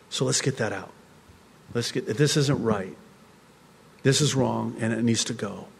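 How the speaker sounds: soft, tender, unhurried voice; gentle loving words from the Lord. Retold or imitated. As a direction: lovingly coax it out of them. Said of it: "ever so gently, ever so lovingly say".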